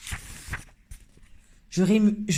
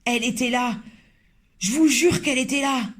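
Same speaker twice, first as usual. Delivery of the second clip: insistent shout; 6 semitones higher than usual. Acted. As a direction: swear it to the laughing cooks. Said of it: "criait l'homme".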